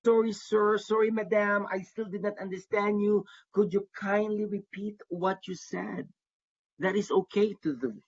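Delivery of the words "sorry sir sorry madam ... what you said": composed, polite request to repeat; steady and sure, not panicked; calm and confident. Shown as a demonstration. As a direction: applicant politely asking the visa officer to repeat. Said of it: "You can calmly and confidently say".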